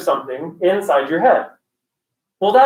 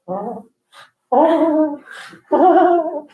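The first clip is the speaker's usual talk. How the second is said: put-on child's rising little oh sounds; imitated child's noises; 8 semitones higher, much slower than usual. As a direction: imitate a kid's mounting oohs. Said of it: "she's going".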